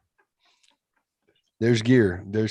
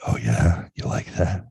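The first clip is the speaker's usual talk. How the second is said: half-joking sexy voice; mock sultry; slower than usual. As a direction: tease it like a bad seductive streamer. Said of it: "supposed to sound pornographic".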